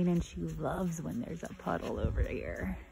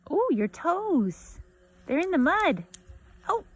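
excited pet talk; 8 semitones higher, 8 dB louder, slower than usual. Real, not acted. Cheering dog in puddle.

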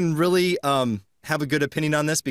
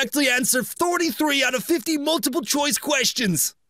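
mock English accent; 7 semitones higher than usual. Host reading the test rules in his English accent. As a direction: read it out in a put-on English accent. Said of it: "Do I need to start doing the accent again".

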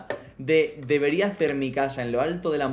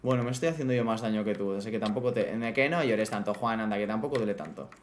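soothing the horse; 5 semitones lower than usual. Acted. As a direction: gently talk him down like a hurt child. Soothing his horse Juan.

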